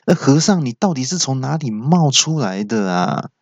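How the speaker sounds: mildly irritated interruption; a bit impatient. Acted. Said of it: "有点不耐烦的就说".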